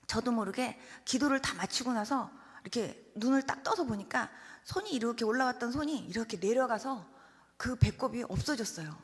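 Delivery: ordinary talk, nothing marked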